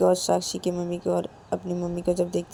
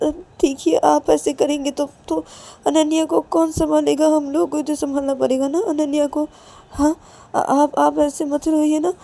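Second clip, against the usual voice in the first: higher, stammering plea to stop crying; acted anxious soothing; 6 semitones higher than usual. Ananya's mother calming a crying mother, pleading soothingly. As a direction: coax gently with repeated, halting reassurances. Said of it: "ये बोल के पायल की mummy को शांत करवा देते हैं".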